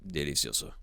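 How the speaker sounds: soft, savoring Italian "Delicioso"; lightly hammed Italian accent; poor Italian impression. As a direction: sigh out "Delicioso" like a mock Italian chef. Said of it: "I'm doing a poor Italian impression".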